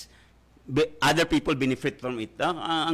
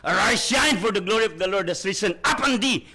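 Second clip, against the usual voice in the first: proclaiming scripture; 5 semitones higher, 3 dB louder than usual. Acted.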